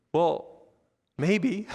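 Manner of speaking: hesitant, with pitch lifting at the end; tentative objection. Retold or imitated. Nicodemus speaking up to fellow leaders, tentative. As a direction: venture it cautiously, pausing between words.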